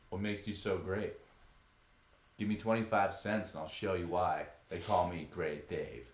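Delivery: laid-back California stoner, lightly done. Retold or imitated. Actor as Great Dave to guests, California stoner voice. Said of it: "that California stoner voice".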